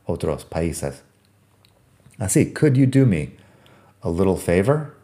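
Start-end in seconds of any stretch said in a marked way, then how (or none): 2.5-4.9 natural tapped T in "little"; natural American little. Shown as a demonstration. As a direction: say "little" as LIDDLE within the question. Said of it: "Así de natural".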